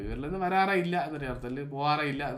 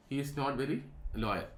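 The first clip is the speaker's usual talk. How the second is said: slow dictation; 3 dB quieter, much slower than usual. Shown as a demonstration. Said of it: "negative sentence ആക്കാം".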